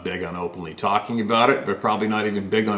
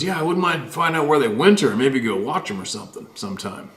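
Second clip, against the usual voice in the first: put-on offhand, easygoing quote of the old faller; casual logger; 5 semitones higher than usual. Host quoting the faller about Sasquatch, lightly casual. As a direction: toss it off like it's nothing. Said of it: "casually, he goes".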